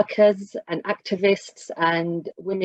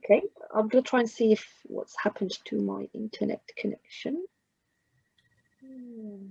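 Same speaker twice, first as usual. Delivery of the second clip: audio cutting in and out; broken, dropping connection audio; tape dropouts; 4 semitones higher, 8 dB quieter than usual. Real, not acted. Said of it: "Your audio keeps dropping out".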